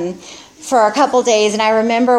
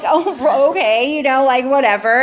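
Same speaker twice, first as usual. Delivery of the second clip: airy, dismissive brush-off with a laugh; 4 semitones higher than usual. Retold or imitated. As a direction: shrug it off, whatever. Brushing off mom's warning.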